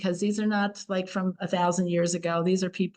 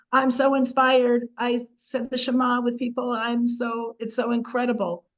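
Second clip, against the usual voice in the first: mock inspired gush; 4 semitones higher than usual. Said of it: "comes up to say".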